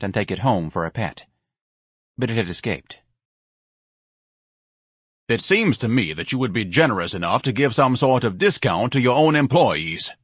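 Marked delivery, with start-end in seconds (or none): 5.3-10.1 mildly pompous, slowing toward the end; lightly voiced haughty complainer; self-important. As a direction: put on a touch of grand importance. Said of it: "Ignatius said importantly".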